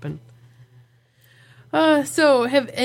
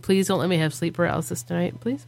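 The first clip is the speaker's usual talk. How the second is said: quiet fast pleading; 4 semitones lower, 5 dB quieter, faster than usual. Retold or imitated. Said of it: "I'm like".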